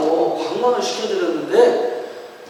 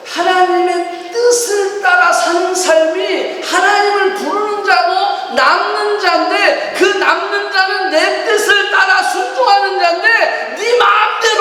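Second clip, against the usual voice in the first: impassioned preaching; 8 semitones higher, slower than usual. Acted. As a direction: lift it up like a revival preacher. Preaching climax, sung-out lines.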